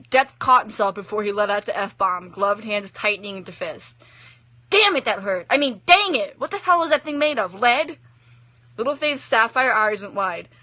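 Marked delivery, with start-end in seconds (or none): 4.7-8.0 pained irritation. A narrator's reading. Death hurt and annoyed.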